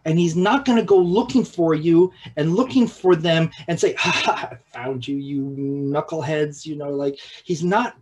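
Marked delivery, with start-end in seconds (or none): 3.9-6.7 breathy mock laugh then a teasing jab; mock gotcha taunt. Preacher mocking a God who gloats over sinners, lightly teasing. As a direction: play a smug seeker who has caught them. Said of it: "that is not his posture".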